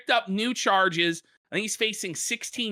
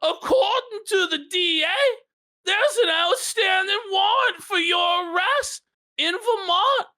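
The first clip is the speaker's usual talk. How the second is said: quoting the stern judge; 8 semitones higher than usual. Retold or imitated. Judge voiced in retold story.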